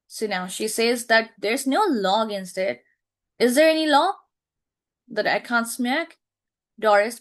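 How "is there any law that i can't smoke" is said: challenging retort. Acted. Teacher re-reading mother's line.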